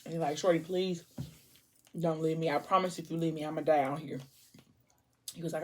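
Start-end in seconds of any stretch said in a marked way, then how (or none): 0.4-4.2 soft, hushed begging; pleading softly. Retold or imitated. Boyfriend begging girlfriend not to leave, soft plea. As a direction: plead quietly so she stays.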